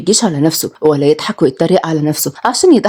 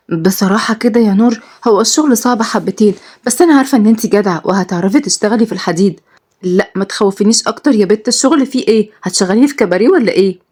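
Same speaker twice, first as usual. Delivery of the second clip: put-on lively young women. Two friends bickering over a new job, lightly raised and lively. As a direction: trade quick lines like close friends.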